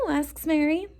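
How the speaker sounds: ordinary delivery, nothing marked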